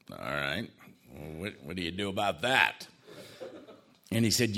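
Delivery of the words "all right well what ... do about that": low, softened, halting reply; quietly taken aback, pausing before the question; subdued reaction. Retold or imitated. Patient answering the doctor's cancer news, low and subdued.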